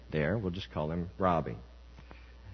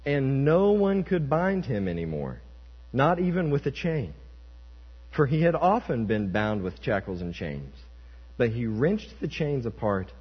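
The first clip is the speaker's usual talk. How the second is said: measured, emphatic Bible reading; declaimed scripture, phrase by phrase. Acted. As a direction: read the verse out deliberately to a congregation. Reads scripture aloud.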